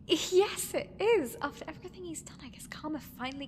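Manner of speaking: giddy, gloating yes; gleeful. Acted. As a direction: gloat with a grin. Gloats, still laughing.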